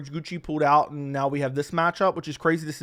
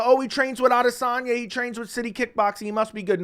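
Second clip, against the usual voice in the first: higher-pitched parody of naive fans; mock hype; 5 semitones higher than usual. Fight pundit imitating fans hyping a fighter by his training partners, mock hype.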